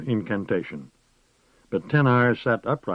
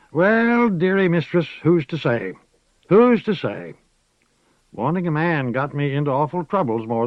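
higher, louder crone voice; old witch waving away marriage; 7 semitones higher, 5 dB louder than usual. A narrator's reading. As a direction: chuckle it off, old and sly. Moss laughing off marriage.

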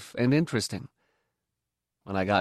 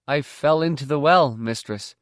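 nervous; 4 semitones higher, 5 dB louder than usual. Acted. Boy lying nervously to mistress.

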